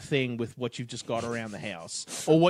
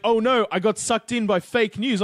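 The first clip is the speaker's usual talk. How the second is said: mock dismay; 7 semitones higher, 5 dB louder than usual. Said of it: "he was like".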